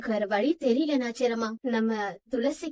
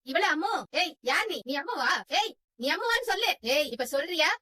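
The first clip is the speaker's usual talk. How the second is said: put-on sharp, higher demands to the girl; angry interrogation; 3 semitones higher than usual. Mother confronts the girl claiming to be Ammu, angry. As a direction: threaten her, demanding an answer.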